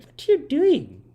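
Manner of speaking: very high-pitched impression of an angry mom; mad mom. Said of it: "she's getting so mad at me".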